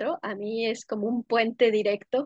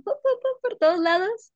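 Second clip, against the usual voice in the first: high, bouncy "pu, pu" like colors popping; mock bursts of color, pitched way up; playful popping sounds; 10 semitones higher, 4 dB louder than usual. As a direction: make little popping noises, much higher. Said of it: "colorcitos adentro de mí y se van".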